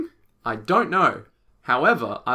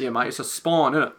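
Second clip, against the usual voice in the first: broad Aussie mate voice; Australian accent. Acted. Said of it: "heavy Australian accent".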